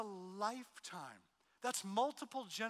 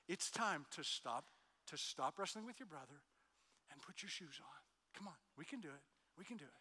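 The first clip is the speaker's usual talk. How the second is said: gentle coaxing; 4 dB quieter than usual. Retold or imitated. Dad gently coaxing Martin to put shoes on. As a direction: coax him along quietly. Parent coaxing reluctant son.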